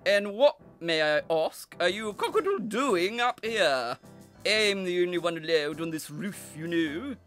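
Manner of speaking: loud, haughty scolding; lofty cockerel. A narrator's reading. Cockerel challenges the breeze on his roof, lofty. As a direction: talk down indignantly to an intruder. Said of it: "he declared loftily".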